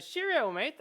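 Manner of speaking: high, loud cheery rabbit; rabbit companion. Acted. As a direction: chirp the stock catchphrase. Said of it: "and he's like".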